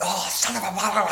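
furious, frustrated yelling and screaming. Retelling own angry outburst at work before a call: imitating own angry yelling. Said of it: "freaking out, yelling and screaming".

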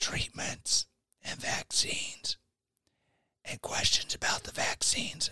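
hushed whisper. Speaker recapping an episode YouTube would not air; whispering. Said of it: "I'm whispering right now because I don't want YouTube to catch on".

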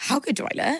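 whispered, mocking voice. Retelling how the other speaker walks into the room: imitating the other speaker. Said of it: "You walk in and go".

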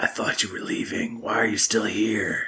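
close, intimate whisper. As you watch the flames, someone speaks into your ear: whispering. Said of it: "hear whispered into your ear".

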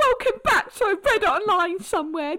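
very high, loud, furious presenter voice rant. Trying out an angry version of Sonia, angry Sonia impression. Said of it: "I want to try an angry Sonia".

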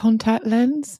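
mock unsure, tentative, hesitant, high tone. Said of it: "in a kind of like, "Oh," like this".

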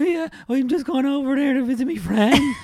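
put-on very high, squeaky teen voice that keeps cracking. Podcast host demonstrating a teenage boy's voice going through puberty, awkward voice cracking. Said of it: "that awkward voice cracking".

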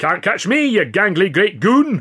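teasing, jeering, high-pitched, loud shout. Taunting a caged bird as it is jabbed, he shouts. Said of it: "Ritchie shouted".

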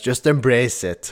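normal talking voice

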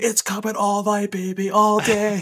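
mock yell, very high, very slow, stretched. Retelling a scream at someone just sniped: imitating his own screaming. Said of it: "just screaming at him".

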